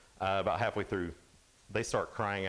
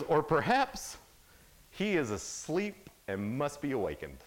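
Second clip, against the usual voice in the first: mocking; 3 semitones higher than usual. Elijah taunting prophets over their sleeping god, mocking. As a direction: taunt starting high, then settling. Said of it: "here Elijah's mocking them".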